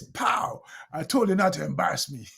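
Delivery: high, fast mock kid scolding; angry kid. Seven-year-old son scolds dad after the class visit, high and fast. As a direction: play the embarrassed son snapping at dad. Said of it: "the kid slapped me".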